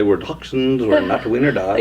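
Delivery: a touch of playful affront; mildly offended. Pretend. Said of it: "would be a little offended".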